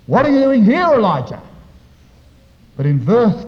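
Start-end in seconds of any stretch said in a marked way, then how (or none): 0.1-1.4 loud, high demand from God; forceful pulpit cry, dropping on the name; loud challenge. Acted. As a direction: thunder the question at the prophet. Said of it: "note the difference".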